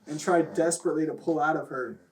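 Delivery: mock-dramatic reading of a silly story; story narration. Reading raunchy fan fiction aloud to laughing friends, mock-dramatic narration. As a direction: read it out like a serious story, half laughing.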